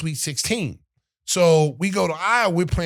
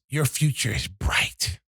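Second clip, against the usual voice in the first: slow, lower, drawn-out coach line; coach's one-liner; 6 semitones lower than usual. Retold or imitated. Coach leaving his upset player with a slow, low parting line. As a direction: deliver it slow like a mic drop.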